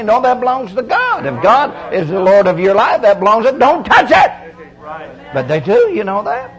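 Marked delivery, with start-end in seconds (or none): 0.0-4.3 God's firm rebuke. Acted. Preacher voicing God correcting a churchgoer, lightly firm.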